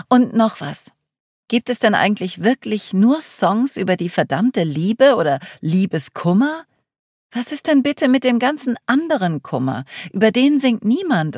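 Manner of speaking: exasperated rant. Acted. Girl complaining to the group about love songs, exasperated rant. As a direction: vent the frustration in a rising complaint.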